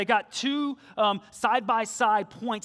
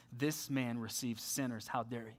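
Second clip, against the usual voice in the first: indignant grumble; 7 semitones lower, 10 dB quieter than usual. Retold or imitated. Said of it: "they grumble".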